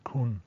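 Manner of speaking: "kun" back down, level; isolated level tone. Shown as a demonstration. Teacher shows traditional pronunciation, "kun" isolated and level. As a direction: say "kun" alone on an even pitch. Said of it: "comes back down here".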